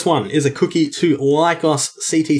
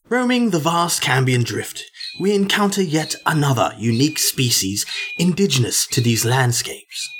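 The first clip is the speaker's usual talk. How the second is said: David Attenborough. Pretend. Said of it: "David Attenborough on the show".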